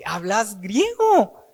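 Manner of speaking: startled question. Acted. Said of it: "se quedó asustado".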